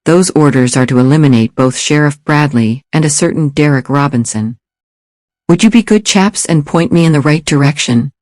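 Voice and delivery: a hint of a public-school British accent; lightly voiced, polite British public-school stranger. Stranger asks the lawmen for directions, hint of British accent. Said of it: "The accent was definitely British".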